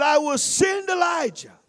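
booming preacher's proclamation; preached quote. Shown as a demonstration. Preacher quoting the prophecy to the church, in a booming voice. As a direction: call it out to the congregation. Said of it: "He said".

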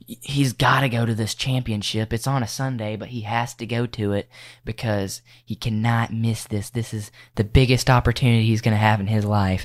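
a hint of a pushy sports mom. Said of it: "Probably the mom voice".

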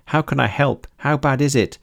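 high, anxious questioning wail. A narrator's reading. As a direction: plead to know how to help. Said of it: "wailed Mei".

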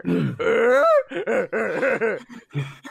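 loud comic grunts; weird grunting noises. Acted. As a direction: grunt in a rapid hammed-up run. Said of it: "making weird grunting noises".

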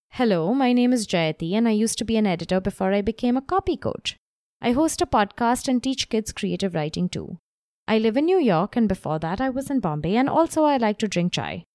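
long run-on read with barely a breath; running out of breath. Shown as a demonstration. Coach reading run-on copy aloud to students, breathless. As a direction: read it like you're gasping for air by the end. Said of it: "how I was struggling to catch my breath".

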